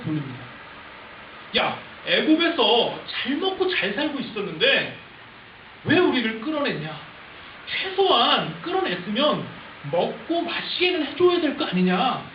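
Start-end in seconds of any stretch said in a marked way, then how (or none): 1.6-12.2 slow, emphatic mock protest; blaming complaint. People blame Moses for leaving Egypt, drawn-out indignant protest. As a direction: drag out the demands accusingly. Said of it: "책임들을 누구에게 돌립니까".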